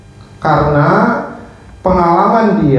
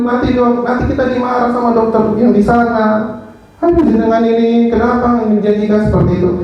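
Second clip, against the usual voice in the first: higher, hurried mock scolding; retold condescending complaint; 5 semitones higher, faster than usual. Nurse scolding the doctor over his promise, mildly condescending. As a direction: imitate a nurse fussily correcting a doctor. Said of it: "cara dia komunikasi ke saya itu sangat merendahkan".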